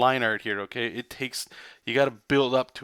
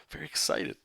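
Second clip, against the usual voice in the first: mock deadpan; 6 semitones lower, 6 dB quieter than usual. Deadpan then re-said brightly.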